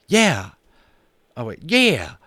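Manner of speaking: a cowboy warming up to his idea; Boone. Acted. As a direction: Boone chiming in, high and loud. Boone starts to speak.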